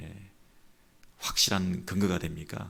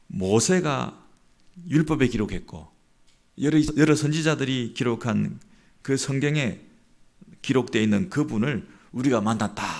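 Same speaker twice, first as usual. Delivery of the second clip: higher, louder, emphatic announcement; deeply moved excitement; 5 semitones higher, 6 dB louder than usual. Retold or imitated. Philip telling his friend he met the Messiah, thrilled. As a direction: proclaim the great find with awed conviction. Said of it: "그런 감격을 가지고".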